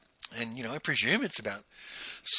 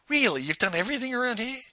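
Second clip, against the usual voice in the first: much higher, fast astonished question; incredulous; 10 semitones higher than usual. Retold or imitated. Pete hears Gerald has done everything there, fast high astonishment. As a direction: rush it out in disbelief.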